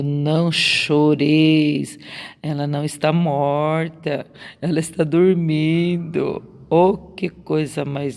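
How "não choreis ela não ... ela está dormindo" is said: Não choreis bem devagar e firme, depois calmo; consolo de Jesus. Acted. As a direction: consola com firmeza serena. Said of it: "Jesus consolou, dizendo". (Jesus consolando os pais, firme e terno)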